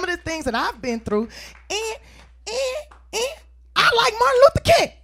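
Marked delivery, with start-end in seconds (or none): 1.7-4.9 high laughing line. Real, not acted. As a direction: laugh through it.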